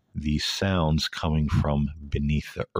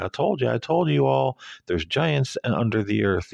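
high, lilting calm woman's voice; a calm woman, higher and lighter; mock calm woman; 8 semitones higher than usual. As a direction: imitate her serene sing-song. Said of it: "she's very calm about it".

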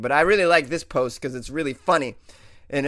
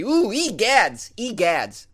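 surprised; 7 semitones higher, 4 dB louder, much slower than usual. Real, not acted. Reacting to frigid temperatures.

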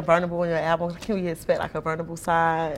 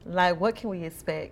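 sexy voice. Acted. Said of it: "talking to me in your sexy voice".

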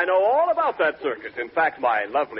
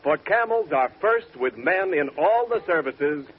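smooth radio announcer read. Acted. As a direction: sell it like a sponsor spot. Commercial read after show.

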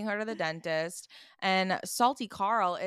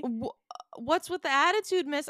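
higher, sassy jealous snap; jealous attitude; 6 semitones higher, 3 dB louder than usual. Retold or imitated. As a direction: play the jealous friend with sass. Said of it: "she's acting, like, jealous".

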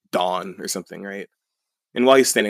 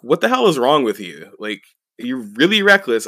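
higher mock indignation; mildly heated, raised-pitch imitation of outrage; retold indignant outburst; 3 semitones higher, 4 dB louder than usual. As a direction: act out scolding an attacker. Acted outburst after being attacked.

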